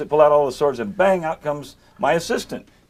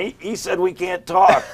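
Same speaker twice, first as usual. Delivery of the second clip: put-on timid kid voice; 7 semitones higher, slower than usual. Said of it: "And they're going".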